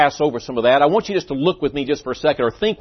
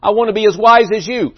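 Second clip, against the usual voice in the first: higher-pitched mock gasp for breath; 5 semitones higher than usual. Young man pulled up from the water answers Socrates, gasping. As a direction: act winded, pleading up to the master. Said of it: "He's just gasping".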